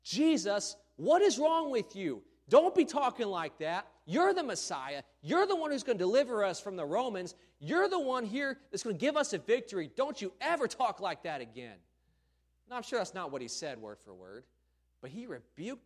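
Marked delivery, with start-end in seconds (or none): 0.0-11.8 higher, louder, frantic scolding of Jesus; imitating Peter grabbing Jesus to scold him; shocked angry rebuke. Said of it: "just picture grabbing Jesus and be like".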